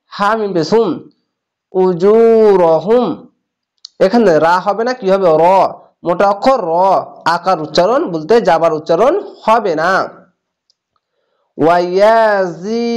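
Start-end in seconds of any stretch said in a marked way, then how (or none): 1.7-3.1 very slow chanted tajweed reading; drawn-out Quranic chant; slow recitation. Shown as a demonstration. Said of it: "এক আলিফ টেনে পড়বেন". 11.6-12.9 very slow chanted tajweed reading; drawn-out Quranic chant; slow recitation. Shown as a demonstration. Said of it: "এক আলিফ টেনে পড়বেন".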